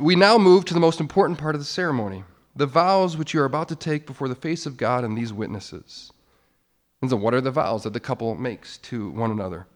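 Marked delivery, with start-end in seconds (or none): 0.0-6.1 louder, faster officiant announcement; loud, vigorous wedding-ceremony proclamation; with more vigor. Shown as a demonstration. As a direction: boom it out like a pastor opening the vows. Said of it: "I say it with a little more vigor".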